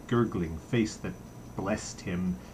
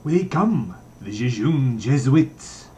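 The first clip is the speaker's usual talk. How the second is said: delighted cry; 3 semitones higher, 6 dB louder, slower than usual. Acted. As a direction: crow it out with glee. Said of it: "laughing with delight, cried".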